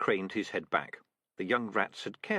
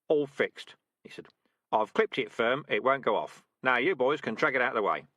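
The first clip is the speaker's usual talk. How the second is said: louder, confident commands; brisk rat sergeant; 2 semitones higher, 5 dB louder than usual. Acted. Sergeant rat ordering trainees to drag the trap, brisk. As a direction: give orders to the squad briskly. Dark Tan giving orders.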